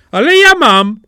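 loud, high, eager comeback; triumphant retort. A narrator's reading. Simple Jack offers the princess a pan, triumphant retort. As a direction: jump in proudly with the answer.

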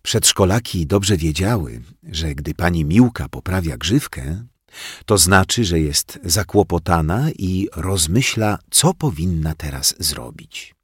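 ordinary delivery, nothing marked

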